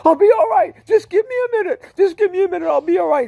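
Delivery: loud, very high tearful wail; sobbing insistence. Retold or imitated. Sobbing driver refusing to pull over, tearful wail. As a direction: cry it out, insisting through sobs. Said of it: "and he's sobbing".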